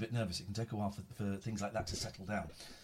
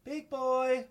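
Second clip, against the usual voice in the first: high drawn-out coo; cooing at a pet; 14 semitones higher, 6 dB louder than usual. Real, not acted. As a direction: coo his name. Calling the cat.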